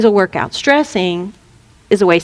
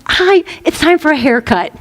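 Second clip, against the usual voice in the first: put-on singsong mother voice; caricatured meddling mother; obnoxious mother; 3 semitones higher than usual. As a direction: nag while pretending to be friendly. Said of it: "a typical mother of, of the obnoxious kind".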